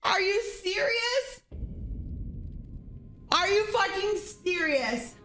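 high, incredulous cries of outrage; outraged shouting. Real, not acted. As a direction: scream in disbelief at the game. Streamer outraged by hitbox.

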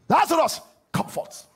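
high shout fading to hoarse breath; commanding cry; loud cry. Acted. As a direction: call him out. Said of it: "he cried with a loud voice".

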